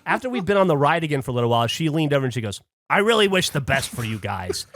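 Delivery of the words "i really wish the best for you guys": insincere. Retold or imitated. Lady leaning over to the couple, insincerely. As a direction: wish them well without meaning it. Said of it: "in, like, the least sincere way ever".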